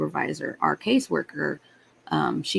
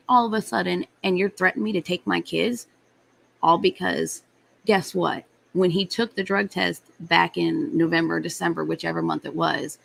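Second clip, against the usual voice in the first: retold angry rant. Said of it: "I finally got pissed".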